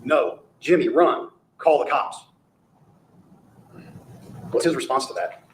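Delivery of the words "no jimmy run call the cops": drawn-out imitation of an urgent cry; acted calling out. Lawyer re-enacts a plea to Jimmy for help, calling out. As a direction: call it out slowly, imitating alarm.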